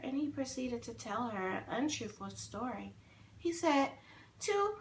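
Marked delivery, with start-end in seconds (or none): 4.4-4.8 high, very loud crying wail; wailing puppet lie. A narrator's reading. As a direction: sob out the made-up story. Pinocchio lies, wailing.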